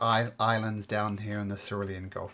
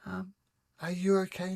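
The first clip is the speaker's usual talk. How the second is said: sorry and caring; 7 semitones higher than usual. Acted. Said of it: "she turns around and says".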